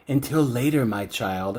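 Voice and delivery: mock ominous farewell, sinking low; unnerving creep. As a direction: imitate a creepy, quiet goodbye. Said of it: "it's really unnerving".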